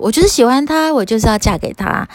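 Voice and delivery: a lightly voiced smitten young woman; lovestruck girl. Matangi girl tells the Buddha she will marry Ananda, insistent girlish voice.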